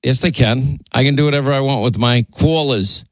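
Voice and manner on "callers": exaggerated New York "cawlers"; mimicked New York accent. Host teasing his colleague about callers, mimicked New York accent. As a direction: imitate a New Yorker saying callers. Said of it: "Linda's New York accent".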